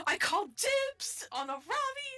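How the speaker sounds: high, put-on Boston accent. Real, not acted. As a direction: call dibs in a Boston accent. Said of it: "We do the Boston accent for a Ravi".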